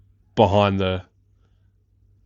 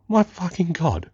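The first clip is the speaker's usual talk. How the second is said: higher, slow, stunned exclamation; awed disbelief; 8 semitones higher, slower than usual. Retold or imitated. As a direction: let it out slowly in amazement at the photo. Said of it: "and I was like".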